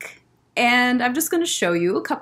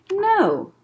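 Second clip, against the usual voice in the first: firm no; 10 semitones higher, 3 dB louder than usual. Acted. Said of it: "said Custard the squirrel".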